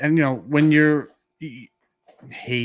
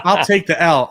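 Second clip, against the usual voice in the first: laughing it off, a touch louder; 5 semitones higher, 9 dB louder than usual. Real, not acted. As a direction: own the mistake through a laugh. Admits fault, laughing at himself.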